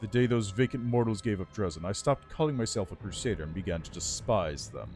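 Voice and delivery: lightly voiced regal undead lich; haughty undead lord, measured and cool. Lich tells his story.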